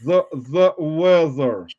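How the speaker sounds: slow, drawn-out sultry tease. Pretend. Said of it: "Tell us the weather in the most that low, sultry voice".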